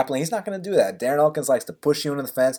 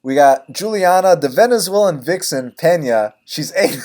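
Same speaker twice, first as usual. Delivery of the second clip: second try at the intro; announcer read, restarting; practicing a speech; 3 semitones higher than usual. Shown as a demonstration. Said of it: "let me start this over".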